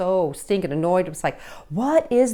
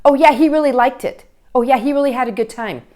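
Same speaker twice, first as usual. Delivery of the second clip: put-on parent answering for teen; 2 semitones higher, 5 dB louder, faster than usual.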